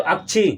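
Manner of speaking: अक्षी read as "ak-chhi", with the half k heard; hidden k sounded. Shown as a demonstration. Teacher models the reading for the class, k sounded. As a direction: read अक्षी with a k before the chh. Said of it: "तो क्या पढ़ेंगे?".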